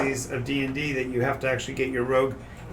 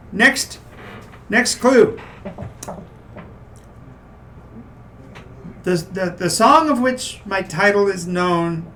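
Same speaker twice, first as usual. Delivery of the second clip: troll voice; 4 semitones higher, much slower than usual. Acted. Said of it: "He says".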